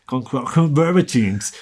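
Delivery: slow booming trailer announcer; movie trailer voice. Shown as a demonstration. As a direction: say it like a cinema trailer narrator. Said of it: "Con voz de locutor de película de cine".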